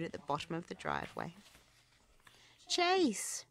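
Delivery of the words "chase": high, loud call. A narrator's reading. Ryder calling Chase into his helmet mic. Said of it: "Ryder called into his helmet mic".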